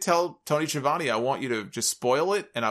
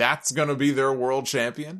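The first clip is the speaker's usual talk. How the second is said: put-on snide, sneering tone. Retelling a second on-air remark about the new champion: imitating a snide remark. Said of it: "made a very snide remark".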